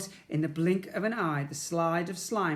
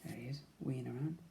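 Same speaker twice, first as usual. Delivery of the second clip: quick aside; 4 semitones lower, 12 dB quieter, faster than usual. Acted.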